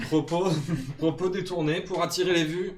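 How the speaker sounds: mock outrage. Mock outraged tabloid denunciation.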